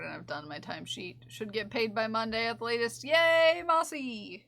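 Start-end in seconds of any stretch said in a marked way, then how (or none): 3.0-4.4 excited yay. Real, not acted. Payday cheer.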